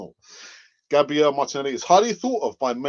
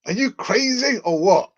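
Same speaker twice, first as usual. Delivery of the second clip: mock incredulous higher defender voice; Rob Holding voice; 7 semitones higher, 4 dB louder than usual. Holding thinking about Costa joining, mock incredulous. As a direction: play Holding gaping at Costa. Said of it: "what would Rob Holding be thinking".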